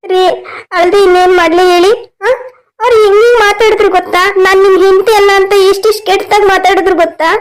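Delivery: mildly tearful reproach; put-on crying. Wife reproaching husband over her standing, feigned crying. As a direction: complain through staged tears. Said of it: "ಅಳ್ಬೇಡ ಶೋಭಾ ನೀನು".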